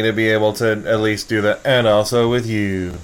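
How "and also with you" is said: slow, reverent churchgoer reply; solemn church response. Retold or imitated. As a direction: intone it like a congregation. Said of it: "Did you say it like that?".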